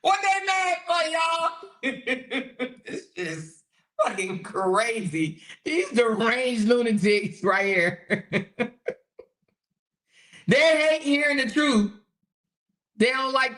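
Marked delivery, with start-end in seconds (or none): 0.0-8.5 slow words broken by laughter; laughing. Real, not acted. Streamer mocking angry viewers, slow laughing talk. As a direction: laugh through the words slowly.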